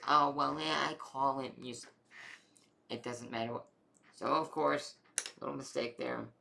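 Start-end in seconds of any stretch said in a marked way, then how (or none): 0.0-1.9 louder, lightly acted comeback; retold defensive retort. Mom defending her mistake to dad, mock defensive. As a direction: brush off the correction, imitating mom.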